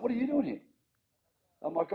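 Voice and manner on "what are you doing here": imitating a shocked, much higher what are you doing here; retold shock, pitched way up in disbelief. Gus surprised to find the young player in the meeting, shocked. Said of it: "he's sort of shocked to see me".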